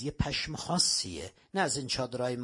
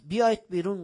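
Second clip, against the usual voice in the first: «بیایید بیرون» shouted much louder and higher; retold shout; 6 semitones higher, 6 dB louder, faster than usual. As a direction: bark the order at the tent. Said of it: "داد زد".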